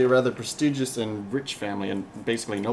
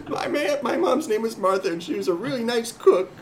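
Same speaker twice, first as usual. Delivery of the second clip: laughing; 10 semitones higher than usual. Real, not acted. Laughing through a joke.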